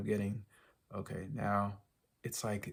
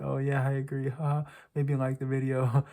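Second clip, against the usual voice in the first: mocking viewers; 3 semitones higher, 5 dB louder than usual. Vlogger mimicking passive viewers who just like the video, mocking. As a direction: imitate viewers nodding along and doing nothing. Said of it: "You're gonna be like".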